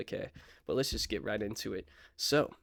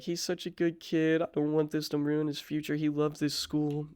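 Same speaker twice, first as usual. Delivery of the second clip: higher-pitched pleading mother, lightly acted; imitated tearful mom; 5 semitones higher than usual. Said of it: "She cried a little bit".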